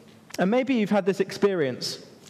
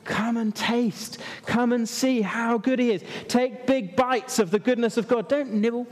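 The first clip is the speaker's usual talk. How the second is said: urging, higher-pitched appeal; David's eager invitation; 5 semitones higher than usual. Acted. Preacher voicing David's invitation to the congregation, eagerly urging. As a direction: call them in eagerly, pitch lifted. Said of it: "and he says".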